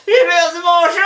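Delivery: panicked neighbour yelling for her lost cat; Mme Michaud calling out. Retold or imitated. Mme Michaud crying out to monsieur Goy about her cat. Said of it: "Puis là, ben, elle dit".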